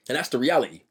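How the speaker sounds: lightly put-on British accent. Man sums up his point to viewers, mock British accent. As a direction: toss it off with a hint of British accent. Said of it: "I said that with a British accent".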